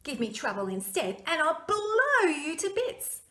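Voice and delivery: loud, high stern threat; threatening Fergus. Acted. Fergus warning the knight, loud and stern. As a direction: warn the thief firmly.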